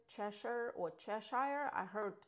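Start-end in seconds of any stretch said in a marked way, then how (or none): 0.1-0.7 Cheshire ending in a short "sher"; first pronunciation. Shown as a demonstration. Realtor offering one pronunciation of a village name, Cheshire said as CHESH-er. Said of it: "not exactly sure how to pronounce it". 0.9-1.7 Cheshire ending like the word "shire"; second pronunciation. Shown as a demonstration. Realtor offering the other pronunciation of a village name, Cheshire said as CHESH-shire. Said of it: "not exactly sure how to pronounce it".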